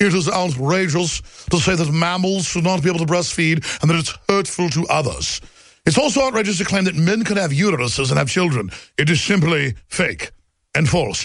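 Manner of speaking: put-on British accent throughout. Mid-rant, the speaker switches into a new voice: British accent. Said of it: "How about a British accent?".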